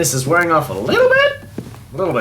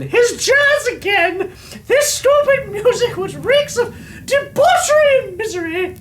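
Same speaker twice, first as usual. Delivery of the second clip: angry rant. Acted. Diary writer rants at the music.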